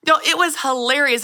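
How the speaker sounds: ordinary talk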